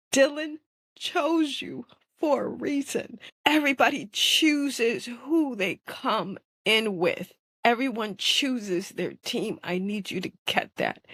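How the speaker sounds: inner voice. Retold or imitated. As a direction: speak as the gentle voice in her head. Inner voice speaking to her.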